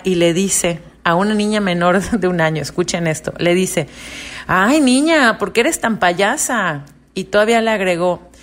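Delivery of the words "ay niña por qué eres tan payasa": high exasperated jab, then slowing; mother mocking her crying baby as a clown. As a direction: scold the baby with mock pity.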